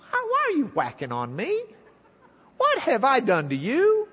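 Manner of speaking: lightly voiced talking donkey, a hint of Eddie Murphy; a touch of Donkey from Shrek, aggrieved. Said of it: "with his best Eddie Murphy voice".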